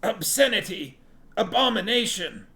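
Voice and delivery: high, loud cry of disgust; strangled, high-pitched fanatic cry; strangled outrage. A narrator's reading. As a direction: choke out the word in horror. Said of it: "Relg was strangling".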